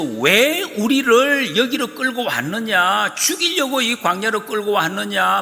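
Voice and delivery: high, slow, aggrieved complaint; complaining crowd. Acted. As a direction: voice the grumbling people. People complaining against Moses. (모세를 원망하는 백성, 불평하는 목소리)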